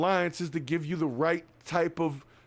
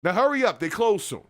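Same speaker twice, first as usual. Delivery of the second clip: New Yorker hustle; 4 dB louder than usual. Retold or imitated. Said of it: "That's how New Yorkers talk".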